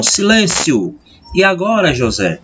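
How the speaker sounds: "Silêncio" exclaimed high, then "E agora" high and falling on "José"; exclamation then question tune. Shown as a demonstration. Teacher demonstrating intonation: exclamation, then question. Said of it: "aí tem a chamada entonação".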